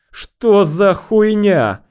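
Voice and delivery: high, slow, drawn-out shout; outraged yell. A narrator's reading. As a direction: bellow the question, stretching the words. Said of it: "заорал он". (возмущённый протяжный крик)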